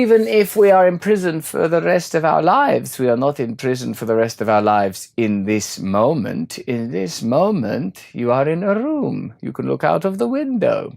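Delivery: a light take on a serene teacher; lightly imitated calm guru; quoting Eckhart Tolle. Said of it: "Someone like Eckhart Tolle would say".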